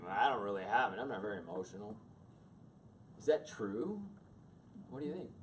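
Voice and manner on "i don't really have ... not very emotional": guy denying feelings. Retold or imitated. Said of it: "they go".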